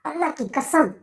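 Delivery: dropping to a soft, dreamy hush; swearing it quietly, lost in longing; carried away, hushed. Acted. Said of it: "आखिर जज्बात में आकर". (भावुक होकर धीमी आवाज़ में)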